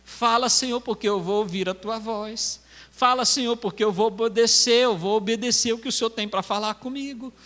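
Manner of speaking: earnest prayer rising gradually in pitch; fervent preacher's prayer in balanced phrases; model prayer. Shown as a demonstration. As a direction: pledge obedience to God, building phrase by phrase. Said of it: "o que que você vai falar pra Deus".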